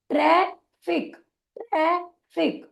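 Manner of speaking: ट्रैफिक said slowly, the f sounded once; slow word demo. Shown as a demonstration. Teacher slowly models the word for trainees. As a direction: draw out ट्रैफिक, the double f as one. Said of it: "उच्चारित करते समय एक ही बार करेंगे".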